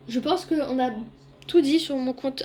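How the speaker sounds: speaking with a painful throat; strained, sore-throated words. Real, not acted. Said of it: "j'ai très mal à la gorge".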